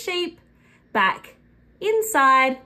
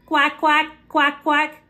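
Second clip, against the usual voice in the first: lightly voiced duck quack; a hint of a quacking duck. Shown as a demonstration. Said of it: "Can you quack like a duck?".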